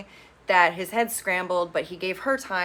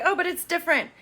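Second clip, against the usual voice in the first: mock whiny excuse; 10 semitones higher, faster than usual. Retelling Abby's whiny excuse.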